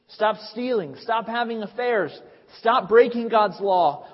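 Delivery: preacher urging the congregation to stop sinning; forceful exhortation. Real, not acted. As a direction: drive each command home.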